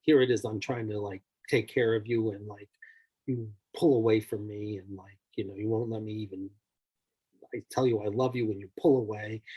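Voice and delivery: a hint of a frustrated husband venting; mildly acted anger at a wife; retold angry husband. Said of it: "the husband gets very angry and says".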